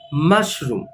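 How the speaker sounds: teacher repeats Mushroom for the class; model word. Shown as a demonstration. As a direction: say Mushroom with the weight on MUSH. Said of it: "the stress is on the first part of the word".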